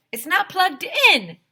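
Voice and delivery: high, loud, slow with "not" punched; slow emphatic reveal; stress on not. Acted. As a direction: deliver the punchline deliberately. Punchline, Mr Harrison.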